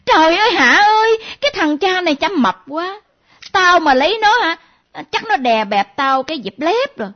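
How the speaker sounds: imitating her friend shrieking about a fat man; mock shriek. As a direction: squeal out a mocking complaint. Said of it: "la lên".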